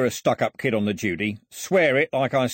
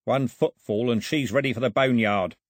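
loud, higher threat from a crook; raised voice; 4 semitones higher, 4 dB louder than usual. Acted. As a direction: call out the threat, easing off toward the end. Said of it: "He raised his voice".

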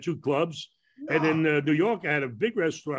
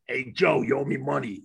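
wise guy voice; 3 semitones lower than usual. Retold or imitated. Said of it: "one of those wise guy voices".

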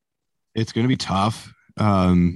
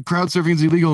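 high, loud mock guard scolding; stern guard; 9 semitones higher, 3 dB louder, faster than usual. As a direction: bark it like a big bouncer laying down the law. Security guard explains rule.

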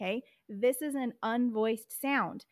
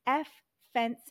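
teacher mnemonic; 2 semitones higher, 5 dB louder than usual. Shown as a demonstration. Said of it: "So I would say".

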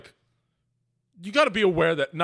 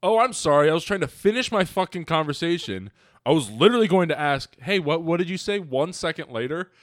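sarcastic retort; 3 semitones higher than usual. Retold or imitated. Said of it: "and I go".

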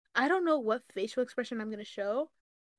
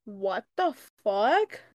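slow, louder stunned disbelief; stunned what the fuck; 5 dB louder, much slower than usual. Retold or imitated. Reacting to the regifted present, stunned and slow. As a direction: drag it out in disbelief. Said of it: "I was like".

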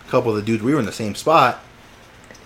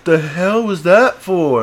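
high, loud, drawn-out protest; indignant disbelief; 8 semitones higher, 6 dB louder, slower than usual. Retold or imitated. Tackled kid asks what that was for, bewildered. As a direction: act out a bewildered, wronged kid.

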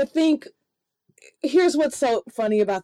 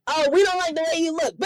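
crowd jeering; 5 semitones higher than usual. Retold or imitated. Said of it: "they're like".

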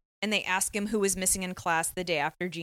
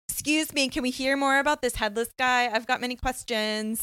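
higher-pitched, insistent mock interruption; pretend heckler; 4 semitones higher than usual. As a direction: pipe up like a nosy onlooker in court. Imagined onlooker interrupting the court.

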